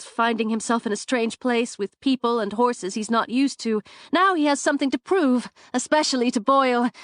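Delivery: words tumbling out from nerves; nervous chatter. Acted. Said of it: "She tends to chatter on when she's nervous".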